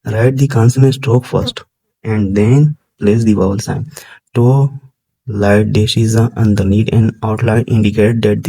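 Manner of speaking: slow, deliberate reading from the book; textbook reading. Acted. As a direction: read each English word out slowly for the class. Reads English textbook aloud slowly. (किताब से धीरे-धीरे पढ़ना)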